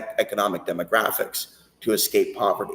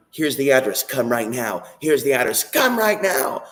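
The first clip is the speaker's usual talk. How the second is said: mock invitation; 4 semitones higher than usual. Women inviting him over, acted quote.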